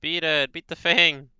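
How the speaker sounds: angry mob shouting. Acted. Voicing angry mob attacking.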